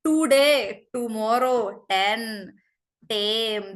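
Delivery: "today, tomorrow, ten, tame" with hard curled-back Ts; Indian hard T. Shown as a demonstration. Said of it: "you will not hear them say".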